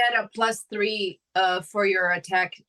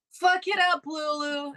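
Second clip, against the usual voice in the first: mock yell; 9 semitones higher than usual. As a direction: cheer a comrade on in a contained yell. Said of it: "I'm gonna yell".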